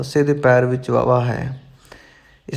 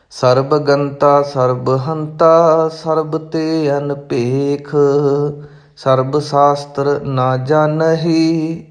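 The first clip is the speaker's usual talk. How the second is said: measured, careful recitation of sacred verse; intoned verse for learners; scripture recitation; slower than usual. Acted. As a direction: recite each phrase distinctly, holding the endings.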